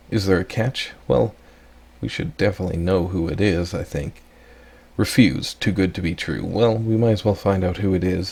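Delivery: ordinary talk, nothing marked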